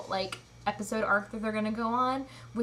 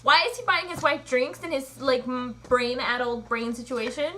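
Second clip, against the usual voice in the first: loud indignant question; indignant rant; 2 semitones higher, 4 dB louder than usual. Real, not acted. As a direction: keep ranting in disbelief. Ranting about the show.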